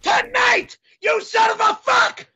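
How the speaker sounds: angry yell; furious shout. Acted. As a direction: threaten him in rage. Furious threat.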